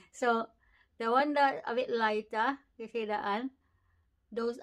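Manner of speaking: lip held down by finger; talking while showing teeth; finger pulling lip down. Real, not acted. Seen 0: Index finger holds lower lip down, baring teeth, throughout labelled words.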